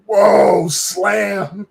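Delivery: loud, high retold whoop; big drawn-out crowd reaction; kids' whooping. Imitating kids reacting to a burn, loud whoop. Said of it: "my kids were going".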